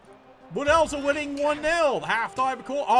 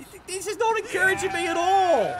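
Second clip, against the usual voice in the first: frustrated shout; 5 semitones higher than usual. Real, not acted.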